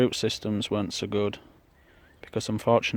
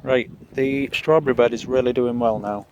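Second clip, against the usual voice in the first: shouting over wind; 4 dB louder than usual. Real, not acted. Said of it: "I hope you can hear me over the wind".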